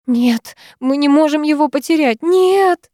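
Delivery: put-on high, frantic young woman; a panicked friend, rising; Sara in panic. A narrator's reading. Sara reporting the attack to the heroine, panicked and high. Sara's voice.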